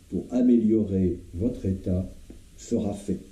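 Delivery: mildly solemn vow; solemn pledge. Acted. Doctor pledging his team's help to the patient, understated solemnity. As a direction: swear it earnestly, with measured pauses. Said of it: "il ajouta solennellement".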